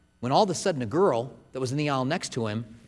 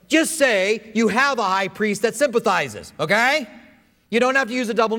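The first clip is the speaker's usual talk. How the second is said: patient schoolteacher correcting grammar; corrective English teacher; 7 semitones higher, 5 dB louder than usual. Retold or imitated. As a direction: spell out the fix like a teacher. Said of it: "an English teacher would say this".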